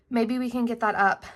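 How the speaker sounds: breathless from walking; out of breath. Real, not acted. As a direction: talk while short of breath. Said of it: "I'm really out of breath".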